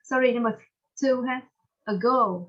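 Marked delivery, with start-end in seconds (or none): 1.8-2.4 "ago" with a long, stressed GO; stress on second syllable. Shown as a demonstration. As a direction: model "ago" slowly, leaning on the second syllable. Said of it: "Two, yes".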